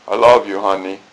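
flat, low droning I love you; monotonous. Pretend. Husband telling his wife I love you, monotonous. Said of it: "the monotonous".

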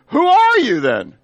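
high, loud and slow exasperated demand. Acted. Frustrated priests pressing John, exasperated and loud. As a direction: throw up your hands and demand it. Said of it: "now they're pretty exasperated".

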